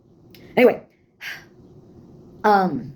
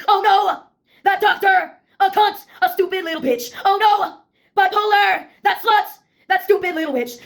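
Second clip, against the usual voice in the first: shouted chorus; 6 semitones higher than usual. Pretend. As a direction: belt it like a furious punk chorus. Shouted comic chorus at doctor.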